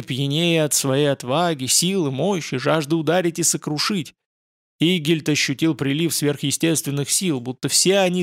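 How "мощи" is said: ordinary delivery, nothing marked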